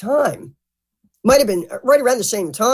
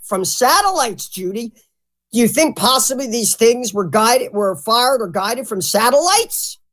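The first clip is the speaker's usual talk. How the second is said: excited interviewer imitation; 3 semitones higher than usual. Mimicking a host floating his idea to his guest, excited. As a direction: draw out the question like a smitten host. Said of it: "he got so excited".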